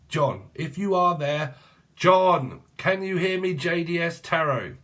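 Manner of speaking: calling out. Real, not acted. Calling out to missing YouTuber.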